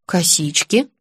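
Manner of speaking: calm. Acted. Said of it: "спокойно пояснила я".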